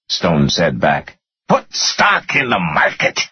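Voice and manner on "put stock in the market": high, exasperated narrated yell; yelled accusation. A narrator's reading. Finance guy answering his clueless boss, yelling. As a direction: yell the answer back, voice raised in pitch. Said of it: "the finance guy yelled".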